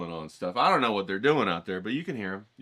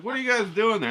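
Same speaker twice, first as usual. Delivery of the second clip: mock startled shout; 11 semitones higher, 6 dB louder, faster than usual. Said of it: "You know, like".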